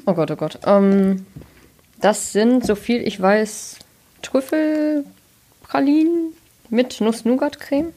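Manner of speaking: talking around a praline; words round a bite of chocolate; mouth full. Real, not acted. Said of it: "Du darfst ja auch mit vollem Mund sprechen".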